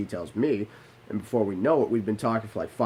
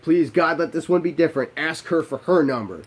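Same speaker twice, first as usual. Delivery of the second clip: desperate prayer; 5 semitones higher, 4 dB louder than usual. Retold or imitated. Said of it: "I'm like".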